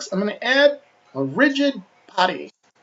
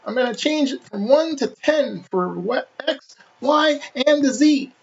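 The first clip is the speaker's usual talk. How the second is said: cartoony voice; 3 semitones higher than usual. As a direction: talk like a cartoon character. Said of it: "I'm gonna use a cartoony voice".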